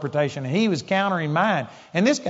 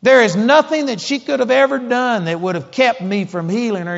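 much higher, louder furious yell; enraged shout; 8 semitones higher, 6 dB louder than usual. Retold or imitated. Outraged father shouting at the preacher, enraged. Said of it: "he just was so violent".

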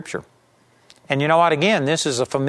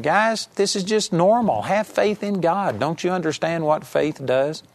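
Jesus reassuring; 3 semitones higher than usual. Retold or imitated. Preacher voicing Jesus telling disciples this is normal, higher and patient. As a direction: make it sound obvious and easy. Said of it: "Jesus is saying".

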